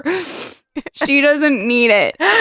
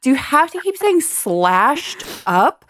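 mock indignant scolding; 5 semitones higher than usual. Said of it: "I was like".

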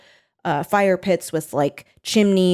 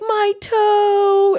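high, wailing imitation of anger; mock mad wail; 13 semitones higher, 4 dB louder than usual. Friend mimics the contestant wailing over her toe, high and mock-angry. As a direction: whine it high and upset. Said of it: "and was so mad".

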